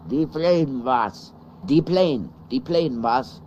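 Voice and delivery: loud mock call to the plane. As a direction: call out to the plane, half joking. Calling to plane, mock announcer.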